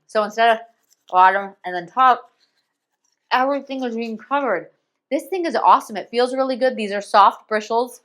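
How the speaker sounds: talking around a toothbrush; words muffled by a brush in the mouth; mouth full. Real, not acted. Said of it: "hard to talk with a toothbrush in my mouth".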